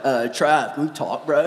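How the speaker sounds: lightly voiced low, subdued young guy; low, hesitant retold plea; imitating shaken teen. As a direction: mimic a nervous kid asking for a talk. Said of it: "He's white as a ghost".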